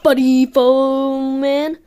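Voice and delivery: slow hollow skeleton voice; black skeleton voice. Pretend. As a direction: drag it out like a bony skeleton. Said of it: "Did you just say the black skeleton voice?".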